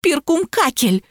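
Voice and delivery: high, drawn-out plaintive whine; sobbing. A narrator's reading. Lapulya naming the lost one to police, high tearful drawl. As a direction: stretch «Перкумкакель» into a mock tearful wail. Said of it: "всхлипнула Лапуля".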